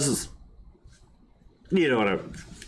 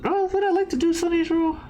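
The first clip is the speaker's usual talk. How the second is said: excited; faster than usual. Real, not acted. Excited by the idea of playing Sonny.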